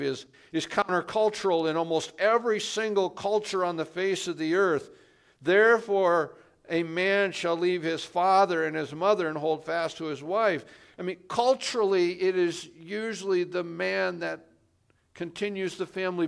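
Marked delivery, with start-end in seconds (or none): 5.4-10.7 louder and higher, proclaiming the verse; emphatic reading. Shown as a demonstration. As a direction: declare the verse boldly to the church. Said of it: "repeats verse with force".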